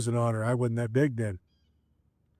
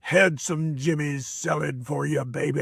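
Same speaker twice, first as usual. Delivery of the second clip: slow, lightly voiced old wrestler drawl; lightly voiced grizzled wrestler boasting; imitating Handsome Jimmy. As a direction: play the grizzled veteran coaching the kid, slowly. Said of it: "He goes".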